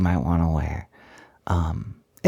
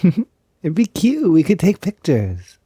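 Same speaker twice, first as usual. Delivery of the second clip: giggly; 9 semitones higher, 6 dB louder than usual. Real, not acted. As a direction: giggle it out, delighted by the idea. Giggling about matching maid dresses.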